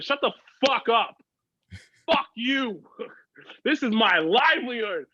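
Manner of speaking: going off in defense of wrestling; retold rant. Defending wrestling to his ex, a heated mock rant. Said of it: "I was just going off".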